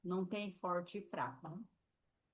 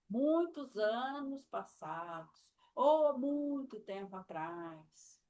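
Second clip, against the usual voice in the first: slow emphasis; 2 semitones higher, slower than usual. Shown as a demonstration. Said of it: "você pode fazer".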